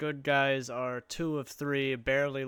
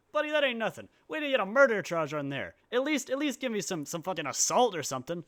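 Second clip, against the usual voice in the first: mock tough guy; 6 semitones higher, 5 dB louder, faster than usual. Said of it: "they see that it's like".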